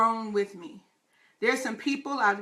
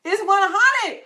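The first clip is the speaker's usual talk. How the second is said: laughing; 9 semitones higher, 7 dB louder, slower than usual. Real, not acted. Celebrating hundredth show, laughing.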